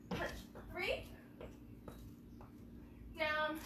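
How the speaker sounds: ordinary talk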